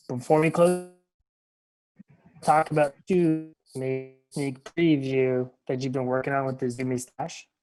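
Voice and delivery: muffled voice, like through a hand; words dulled as if covered. Real, not acted. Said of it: "you were a little muffled there".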